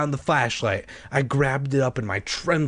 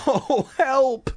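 frightened cry; 11 semitones higher than usual. Acted. Creatures snapping at ankle.

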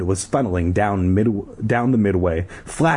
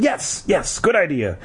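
high, eager agreement; acted excited cry; 8 semitones higher than usual. A narrator's reading. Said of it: "Ashley cried".

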